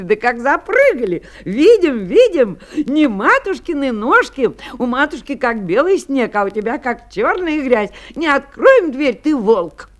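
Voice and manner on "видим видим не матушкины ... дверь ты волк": put-on high, loud childlike protest; defiant little kids. Kids spotting the wolf's black paws, defiant shouting. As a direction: call it out high, like indignant little goats.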